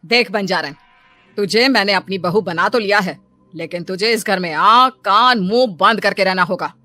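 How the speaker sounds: mother-in-law laying down the law; firm warning to a new bride; stern lecturing. Acted. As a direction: lay down the house rules, punching key words. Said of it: "उसे नसीहत देने लगी".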